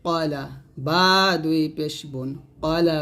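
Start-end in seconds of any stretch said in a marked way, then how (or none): 0.1-0.4 কলা with a short rounded ko, never কালা; kola not kala. Shown as a demonstration. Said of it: "কালা বলা যাবে না". (কলা, কালা নয়)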